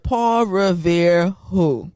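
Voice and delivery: slow, laughing punchline; laughing quote. Retold or imitated. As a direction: drawl it out through laughter. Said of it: "Baby girl said".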